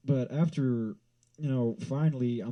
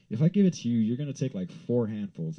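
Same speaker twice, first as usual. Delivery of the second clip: raised, accusing, then slowing; 4 dB louder than usual. Retold or imitated. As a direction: call him out, exasperated. Arguing with dad over nachos.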